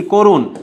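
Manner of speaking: করুণ said as korun, first vowel rounded to o; closed o sound. Shown as a demonstration. Teacher showing students the o sound in করুণ, korun. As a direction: give করুণ a clear o in the first syllable, korun. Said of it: "ও হয়ে যাচ্ছে".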